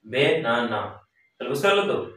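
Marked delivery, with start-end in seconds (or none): 0.1-1.0 বেনানা in three beats, বে-না-না; teacher's three-syllable demo of বেনানা. Shown as a demonstration. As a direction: sound out all three parts of বেনানা. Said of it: "তিনটা".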